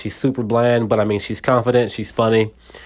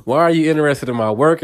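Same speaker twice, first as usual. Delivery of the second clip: higher, pushy questions to a stranger; suspicious; 5 semitones higher than usual. Retold or imitated. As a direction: push her away with suspicion. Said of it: "Back off," pretty much".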